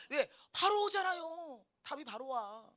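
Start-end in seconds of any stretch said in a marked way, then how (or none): none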